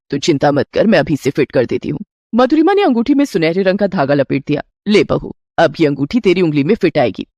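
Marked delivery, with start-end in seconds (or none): 0.1-2.0 lower, easy reassurance; an older woman waving off worry; mother-in-law voice. Acted. Mother-in-law reassures her bride, lower voice. 4.9-7.3 a doting mother-in-law offering a gift. Acted. Mother-in-law gives her new bride a gold ring, lower voice.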